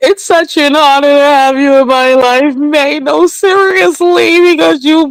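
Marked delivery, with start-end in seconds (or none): 0.0-3.0 put-on tearful crying voice, higher pitch. Retelling how another person spoke while crying: imitating Mackenzie crying. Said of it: "Mackenzie was up there crying like".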